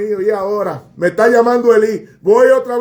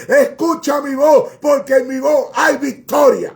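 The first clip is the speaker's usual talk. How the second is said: voice of God; 2 semitones higher than usual. Acted. Preacher voicing God's call.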